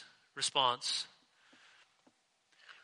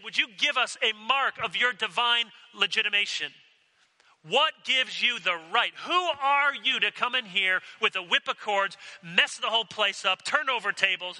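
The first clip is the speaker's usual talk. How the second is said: higher, raised, accusing voice; indignant challenge; 5 semitones higher than usual. Retold or imitated. Temple leaders confronting Jesus over the tables, indignant. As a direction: call out the upstart with offended outrage.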